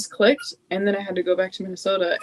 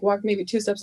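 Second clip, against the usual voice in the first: ordinary talk, nothing marked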